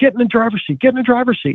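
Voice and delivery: mock high, urgent yelling. Retelling a story where the driver yelled at him: imitating someone yelling. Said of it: "he starts yelling at me".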